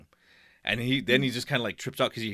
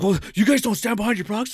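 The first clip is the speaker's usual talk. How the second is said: high, louder whining complaint; mock indignant whine; whiny customer; 10 semitones higher, 6 dB louder than usual. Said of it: "he's like".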